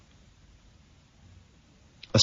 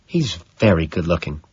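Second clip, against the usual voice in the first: admiring. Acted. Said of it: "Evelyn confides admiringly".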